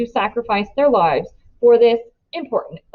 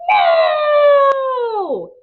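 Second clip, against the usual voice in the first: high, loud shriek of disbelief; loud high gasp of No; shocked cry; 5 dB louder than usual. A narrator's reading. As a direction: cry out as it goes wrong. Narrator's inner scream at climax.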